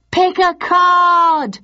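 high, loud, drawn-out call; audience yell. A narrator's reading. Audience drowning out Richard, yelling. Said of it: "the audience yelled".

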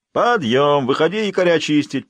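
loud wake-up shout; loud navy wake-up shout; long goal yell. A narrator's reading. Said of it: "поддержал её Николай".

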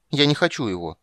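put-on a little girl announcing proudly; proud declaration. A narrator's reading. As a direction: announce it with pride. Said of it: "гордо сообщила Цири".

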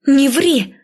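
indignant exclamation; angry protest. A narrator's reading. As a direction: snap back at a lying sister. Acted quarrel, sister contradicts.

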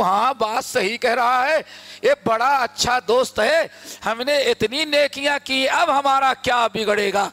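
ordinary talk, nothing marked

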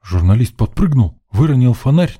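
usual speaking voice

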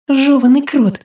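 angry hiss. A narrator's reading. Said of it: "зло прошипела Мальвина".

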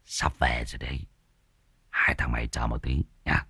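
low, soft and sinister; eerie low voice. Acted. Spirit taunting the two cowering men, low and eerie. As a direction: speak low and menacing, like a spirit.

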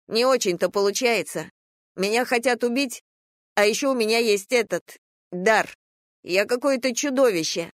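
put-on high, upset child's voice; distressed young boy. A narrator's reading. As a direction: protest as a frightened, bitter boy.

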